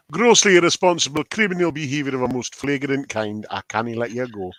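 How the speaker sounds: put-on licht Schots accent, rustig; Scottish accent. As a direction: een vleugje Schots, streng. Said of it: "Oh, no, that's Scottish".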